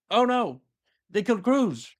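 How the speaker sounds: high-pitched, hammed-up cry of dismay; mock dismay. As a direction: pitch it way up in comic alarm. Loken's dismay, played for a laugh.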